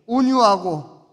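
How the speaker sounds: slow leading call. Shown as a demonstration. Preacher leads the congregation to repeat, slow and loud. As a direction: lead the crowd, stretching 온유하고. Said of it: "옆에 분한테 한 번만 더 얘기해 주세요".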